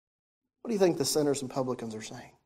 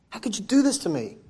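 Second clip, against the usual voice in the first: angry son; 4 semitones higher than usual. Acted. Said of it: "He was angry at his father".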